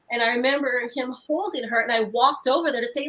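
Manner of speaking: ordinary talk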